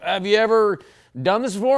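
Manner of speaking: mock backwoods musher; gruff musher. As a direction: call out like an Alaskan dog man. Musher voiced in story.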